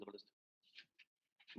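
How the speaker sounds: soft, slow breathy whisper of praise. Real, not acted. Teacher praising the class, whispered and slow. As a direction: breathe the word out in awe.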